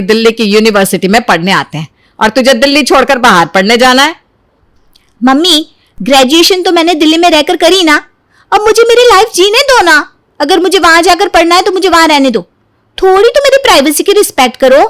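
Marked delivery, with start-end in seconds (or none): 5.2-14.8 higher, pleading complaint; whiny protest. Acted. Daughter pleading with mother to go to Mumbai. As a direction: beg to be let go.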